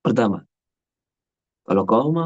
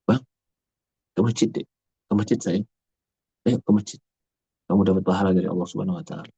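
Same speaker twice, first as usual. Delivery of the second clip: gentle coaxing mother. Shown as a demonstration. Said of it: "Tapi kedengarannya beda".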